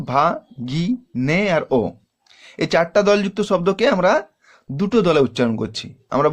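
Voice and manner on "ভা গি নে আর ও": ভা গি নে ও, four syllables spoken apart with pauses. Shown as a demonstration. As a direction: split ভাগিনেয় into four parts. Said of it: "চারটা দল পাচ্ছি". (চার দলে ভেঙে উচ্চারণ)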